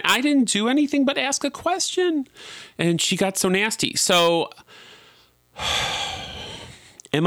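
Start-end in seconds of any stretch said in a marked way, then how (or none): 0.0-2.3 indignant. Real, not acted. Indignant rant about the blacklist.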